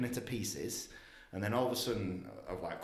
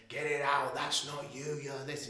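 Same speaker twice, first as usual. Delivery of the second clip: higher, insistent retold yelling; mild mock scream; 5 semitones higher, slower than usual. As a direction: imitate her screaming orders, only half raised. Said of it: "she's screaming in my ears".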